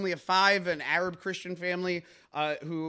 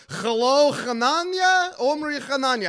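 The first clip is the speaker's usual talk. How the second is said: calling out; 7 semitones higher, 7 dB louder than usual. Acted. Host calling out co-host's name.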